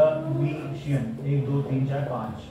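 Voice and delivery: Academician said very slowly and softly, syllable by syllable. Shown as a demonstration. Teacher answering student's doubt, slowly splitting Academician into syllables. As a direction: draw out Academician so its five syllables can be counted. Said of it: "पांच syllable".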